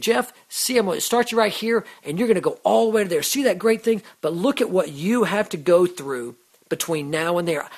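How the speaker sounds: lightly voiced God revealing the plan; mild upbeat explanation; voicing God. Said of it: "if He said".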